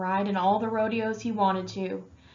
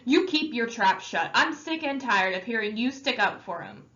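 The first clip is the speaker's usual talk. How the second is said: angry snap; 2 semitones higher than usual. Acted. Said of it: "Derry turned on him".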